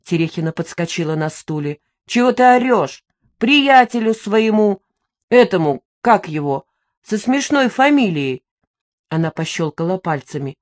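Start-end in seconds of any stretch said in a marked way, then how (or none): 2.1-8.4 louder, cross retort; the widow, woken by a yell, snapping crossly; irritated snapping. Acted. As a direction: snap back at the shouting. Widow snaps back when yelled at.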